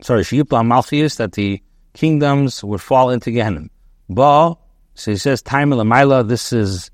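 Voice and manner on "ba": "Ba" said as BA-ah, stressed on the first syllable, higher and louder; accent on first syllable. Shown as a demonstration. Teacher showing the past-tense reading of "Ba", stress on the first syllable. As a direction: lean on the opening syllable of "Ba". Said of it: "the accent is on the first syllable".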